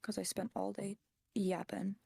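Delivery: slow, scratchy and worn from talking; sore, scratchy voice. Real, not acted. Host worn out from yapping all day, sore scratchy voice. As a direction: drag it out on a tired, sore voice. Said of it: "And my voice is sore".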